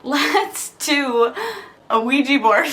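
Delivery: mom's giddy "let's do it", laughing at the end; mock excited mom. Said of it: "And she's like".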